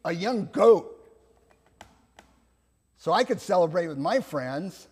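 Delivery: mildly aggrieved elder son; lightly acted complaint, pushed at the start; hurt resentment. Elder son complaining to his father, mildly resentful. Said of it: "hurt and resentment".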